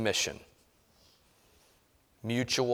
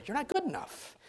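the taunts get higher and louder until they break off; escalating nagging; 6 semitones higher, 10 dB louder than usual. Acted. Pastor acting the critic that nags a spouse, building to a loud, high scold.

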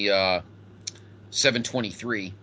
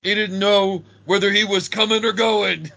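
laughing; 6 semitones higher, 5 dB louder than usual. Real, not acted. Laughing recap.

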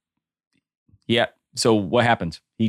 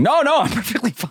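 imitating drunk self; 13 semitones higher than usual. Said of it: "that video you put up of me".

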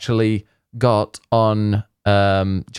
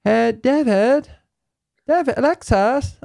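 high, slow put-on Canadian accent; drawn-out, high-pitched mock Canadian accent; 14 semitones higher, slower than usual. Shown as a demonstration. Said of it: "I can do a Canadian accent now".

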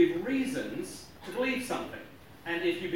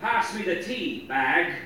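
punchline said through laughter; half-laughing joke ending; slower than usual. Retold or imitated. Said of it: "the Irishman said to his wife".

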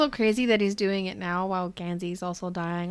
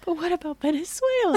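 mocking whine; 10 semitones higher than usual. Mocking Henry's bad timing.

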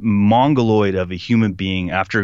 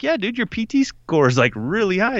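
imitated sergeant; 10 semitones higher than usual. Voicing the sergeant, high pitched.

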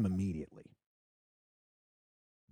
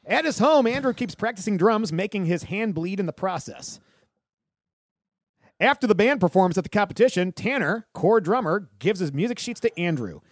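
raised-pitch, announced reading voice; summary read-aloud; 3 semitones higher than usual. Real, not acted. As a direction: read the plot out like a narrator. Reads plot summary aloud.

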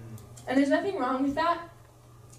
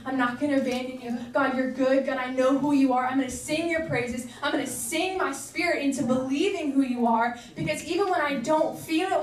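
mild, earnest plea to God; pleading prayer. Acted. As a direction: pray it as someone hurting but holding on. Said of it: "of anger, of saying, like".

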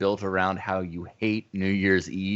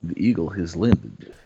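lightly put-on Russian accent, lower; 4 semitones lower than usual. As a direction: buzz in with a mock Russian accent. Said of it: "saying it in the Russian accent".

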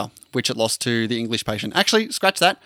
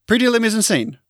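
Australian-accented French; 8 semitones higher than usual. Shown as a demonstration. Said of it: "I just say it in a, in the Australian accent".

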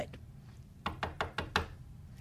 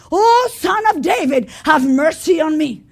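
pleading cry; 4 dB louder than usual. Retold or imitated. Woman keeps begging Jesus.

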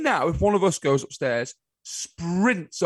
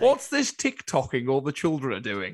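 mock old fogey. Mocking an out-of-touch old person.

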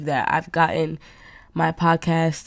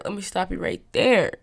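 sassy refusal. Retold or imitated. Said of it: "And I was like".

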